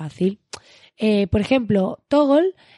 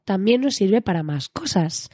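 seductive voice. Shown as a demonstration. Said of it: "voz seductora dentro de mi ronquismo".

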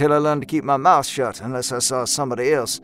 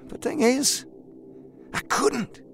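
high, soft hiss through clenched teeth; holding back a shout; 11 semitones higher, 6 dB quieter, slower than usual. A narrator's reading. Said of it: "He hissed through his teeth".

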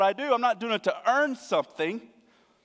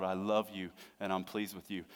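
low, soft and gentle; quiet, heartfelt affirmation from a father; tender fatherly words; 11 semitones lower, 10 dB quieter than usual. Acted. Longed-for words of an earthly father.

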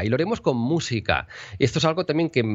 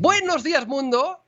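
much higher, lifted greeting; high bright greeting; slower than usual. Shown as a demonstration. Radio host opening with high attention-grabbing greeting. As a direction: pitch it up to grab attention. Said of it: "nos vamos a tonos más agudos".

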